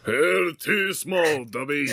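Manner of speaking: slow, high put-on giant voice; booming half-giant, drawn out; Hagrid voice. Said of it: "he explained".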